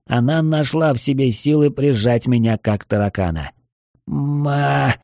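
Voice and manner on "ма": choked cry of her name, higher; hoarse gasp. Acted. Ranger chokes out the elf's name while being strangled. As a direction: force the name out with a squeezed throat. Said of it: "прохрипел я".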